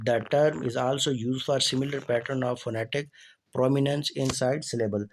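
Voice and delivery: slow, careful reading of a definition; reading aloud. Acted. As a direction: read each word out clearly for the class. Reads English definition slowly.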